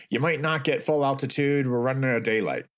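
half-hearted call back to the passengers; retold holler. Pilot warning jumpers about daylight, lightly imitated holler. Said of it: "Ray hollers back".

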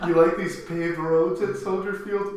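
Hoffman. Acted. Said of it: "Hoffman comes out and he's like".

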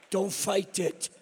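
drawn-out words at normal volume; slow, voiced repeat. Grandpa repeating granddaughter's spell to the audience, slow and voiced. Repeats the child's line for laughs.

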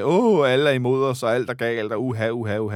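mildly mocking, hammed-up wail of complaint; Thomas Thomasberg light. Pundit mimicking the coach's complaints after the match, mock self-pity. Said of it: "går nærmest Thomas Thomas Berg light i den".

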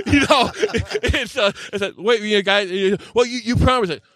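high, slow whiny tenant voice, lightly done; hammed-up whining tenant; mock pleading tenant.

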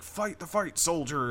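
high, loud drill-style rallying cry; mock-shout like talking propaganda armor; imitating shouted propaganda. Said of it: "it's constantly shouting at you".

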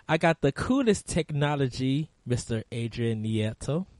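glitchy robotic voice; half robot voice. Real, not acted. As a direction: voice breaking up like a robot. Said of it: "you sound like a cyborg there".

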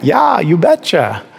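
put-on slow, drawn-out Minnesota accent; a friendly Minnesota "you betcha"; light Minnesota accent, said slowly. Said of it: "Maybe it's the accent".

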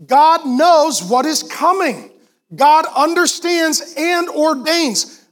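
slow, weighty sermon delivery; slow preaching. Acted. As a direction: lean into each word like a preacher.

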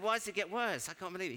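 high-pitched alarmed questioning; retold bewildered protest; acted disbelief. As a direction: react with mock incredulity. Acts own alarmed question.

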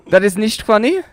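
put-on German-accented reproach; playful German disapproval; mock German accent. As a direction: object in a comic German accent. Mock German scolds himself.

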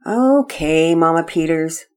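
drawn-out, grudging agreement; resigned child saying okay; reluctant. Acted. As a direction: give in to mother unwillingly. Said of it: "Pearson reluctantly began throwing his toys".

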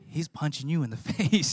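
laughing through the retold words. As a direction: chuckle while recalling watching the fight. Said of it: "I'm over there just like".

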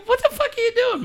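very high, incredulous retold telling-off through laughter; laughing mock scolding. Dad retelling how he scolded his son, laughing. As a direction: scold in mock outrage while cracking up.

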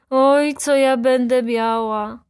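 loud, high, drawn-out lament; frightened wail. A narrator's reading. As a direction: wail in dread of what's coming. Scared servant fears punishment.

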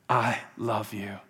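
slow, low and soft; whispered love. Acted. God whispering to his child, slow and low. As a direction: draw it out quietly, pitched low. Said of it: "he's also whispering".

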